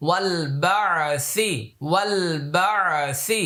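ওয়াল বা'সি joined, the আলিফ silent, a bit slow; no alif in ওয়াল বা'সি. Shown as a demonstration. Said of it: "এটা উচ্চারণে আসবে না". (আলিফ ছাড়া ওয়াল বা'সি)

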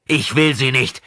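high, loud, emphatic refusal; sudden emphasis. A narrator's reading. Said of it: "mit unerwartetem Nachdruck".

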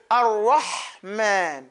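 Ar-Rahman drawn out slowly, the ha breathy; slow demo. Shown as a demonstration. Teacher slows Ar-Rahman to show the whispered ha. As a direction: stretch Ar-Rahman slowly so the ha is heard. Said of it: "You hear that?".

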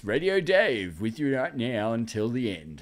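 low, mock radio host. Host showing off Dave's radio voice, lightly put-on radio patter. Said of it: "Dave's got the radio voice".

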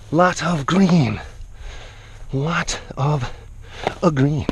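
slow, stretched words; lingering, drawn-out delivery. Real, not acted. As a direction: savor each word at half speed. Repeats phrase, drawing it out.

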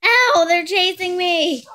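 high, loud and slow; loud laughing complaint. Real, not acted. Girl crying out as the dogs chase her. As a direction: yelp it while fleeing.

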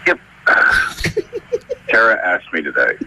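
slurring into the phone. Real, not acted. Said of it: "sultry his voice gets".

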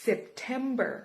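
"September" with "TEM" stressed; stress on second syllable. Shown as a demonstration. Teacher showing learners where "September" is stressed. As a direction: lean on "TEM" in "September", drawn out slowly. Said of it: "เน้นพยางค์ที่สอง".

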